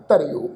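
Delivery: ਧਰਿਓ with a short i on ਰ gliding into o; careful pronunciation. Shown as a demonstration. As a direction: say ਧਰਿਓ as dha-ri-o, pitch dropping. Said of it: "ਪਾਠ ਉਚਾਰਨ ਕਰਾਂਗੇ ਜੀ".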